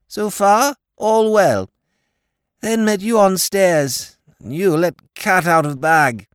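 high, slow, emphatic toff voice; a dim, friendly lord pleading his case; high and loud, slow clipped phrases; silly-ass lord. A narrator's reading. Lord Drever explains.

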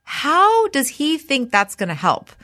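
slow, exasperated retold question; mildly acted outrage; enraged. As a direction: draw out the angry disbelief. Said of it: "I got enraged".

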